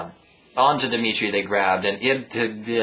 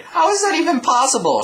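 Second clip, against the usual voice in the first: high, loud disgusted shout; loud high outburst of disgust; revolted shout; 5 dB louder than usual. Acted. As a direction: yell it in revulsion. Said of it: "shouted a revolted Billy".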